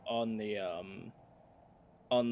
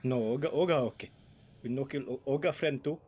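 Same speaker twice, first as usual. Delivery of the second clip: orc broken speech; 4 semitones higher, 4 dB louder, faster than usual. Acted.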